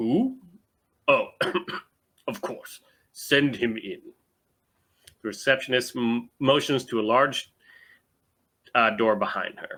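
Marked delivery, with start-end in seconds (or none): 0.0-4.0 deep-voiced, low official-sounding voice. Narrating, the speaker voices someone answering through a desk crest, deep voice. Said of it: "A deep voice emits from the crest".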